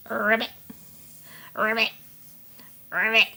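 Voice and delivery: short rolled "ribbit" in full voice; voiced frog croak. Playing Frankie Frog for little ones, voiced croak. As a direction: croak each ribbit crisply, no whisper.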